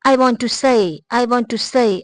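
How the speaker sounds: native-like I want to say; native speaker way. Shown as a demonstration. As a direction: say said as a smooth glide. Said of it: "native speaker ہیں وہ اس کو say".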